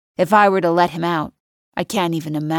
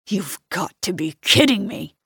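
outraged. A narrator's reading. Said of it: "The outrage in his voice is palpable".

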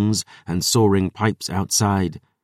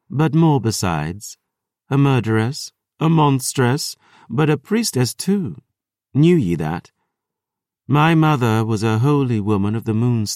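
lightly voiced vampire, proud then wistful; boastful vampire Lily; 3 semitones higher than usual. Vampire boasts of her mother.

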